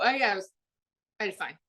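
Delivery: put-on evasive teenager. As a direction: dodge the question with an unconvincing "fine". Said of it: "vocal tone is absolutely telling you".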